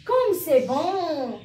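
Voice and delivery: slow delighted exclamation with a laugh; tasting mum's dinner, very slow and pleased; exclamation demo. Shown as a demonstration. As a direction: savour it, slowly and laughing. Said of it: "on exprime un sentiment".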